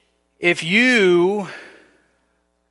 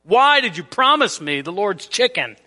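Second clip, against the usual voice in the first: exasperated demand, a bit raised; a hammed-up huffy phone call; mock angry complaint; 4 semitones higher than usual. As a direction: play the wronged friend complaining in a huff. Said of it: "I call you in a huff. I'm very angry".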